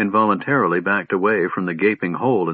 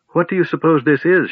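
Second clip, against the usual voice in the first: wondering; 8 semitones higher, 4 dB louder than usual. A narrator's reading. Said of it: "she wondered".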